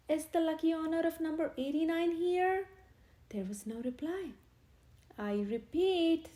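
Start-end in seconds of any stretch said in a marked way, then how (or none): 0.1-2.7 loud announcing vicar; vicar calling out. A narrator's reading. Vicar asks the crowd for the winner, loud call. 5.2-6.3 slow, loud repeat; vicar's stern call. A narrator's reading. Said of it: "said the vicar".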